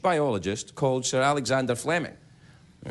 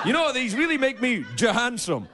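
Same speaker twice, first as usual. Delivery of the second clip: ad model voice; 5 semitones higher than usual. Pretend. Osama voicing a Gap ad.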